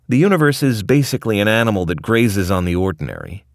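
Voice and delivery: lightly voiced cranky old scientist; Rick voice. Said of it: "he explains".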